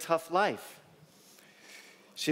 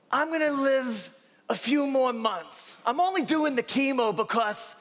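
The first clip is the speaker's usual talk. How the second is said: Flavie imitation; 7 semitones higher than usual. Patient telling her doctor she lived a good life, high voice. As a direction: speak as the dying patient at peace. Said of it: "It's my Flavie imitation".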